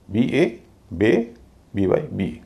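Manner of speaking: "बीए, बे, बीवाई, बी", each part spelt then sounded separately; syllable-by-syllable spelling. Shown as a demonstration. Teacher splitting a word for learners, "बीए, बे, बीवाई, बी" syllable by syllable. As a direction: split "बेबी" as "बे" and "बी", spelling each before saying it. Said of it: "दो हिस्से में बांट सकते हैं".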